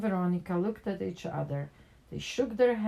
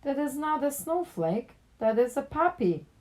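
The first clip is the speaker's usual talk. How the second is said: a mildly voiced chorus of neighbors; exclaiming; 8 semitones higher than usual. A narrator's reading. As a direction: neighbors correcting the kids, exclaiming. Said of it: "exclaimed their neighbors".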